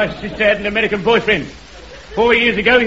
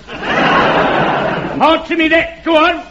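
shouted challenge; 6 semitones higher, much slower than usual. Acted. Street orator shouts his challenge at the heckler, laughing. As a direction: shout it out slowly, laughing through it. Soapbox crank challenging crowd.

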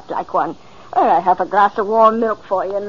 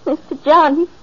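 alarmed cry; 8 semitones higher, 3 dB louder than usual. Acted. Maid finds him unresponsive, alarmed.

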